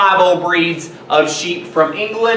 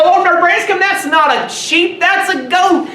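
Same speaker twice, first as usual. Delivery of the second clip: mock disbelief; 8 semitones higher than usual. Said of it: "some people are gonna look at this and go".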